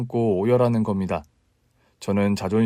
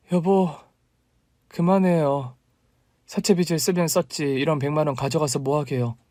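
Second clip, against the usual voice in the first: mild mock yell; 3 semitones higher than usual. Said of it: "그렇게 소리를 지르고 말았어요".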